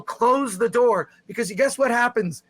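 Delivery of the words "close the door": yell at the screen. Shown as a demonstration. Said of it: "just yell".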